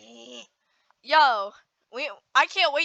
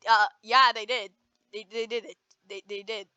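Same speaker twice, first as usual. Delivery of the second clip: cracking voice; 3 semitones lower than usual. Real, not acted. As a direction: voice breaks mid-answer. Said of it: "what the hell was that voice crack".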